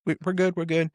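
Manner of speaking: lightly acted, high-pitched reassurance; quick reassurance. Son brushes off father's worry.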